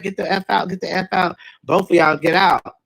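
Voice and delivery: kicking out. Retold or imitated. Worker ejecting them.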